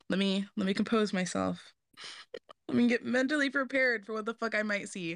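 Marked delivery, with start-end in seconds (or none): 2.7-5.2 after laughing hard. Real, not acted. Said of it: "Ooh, we're here".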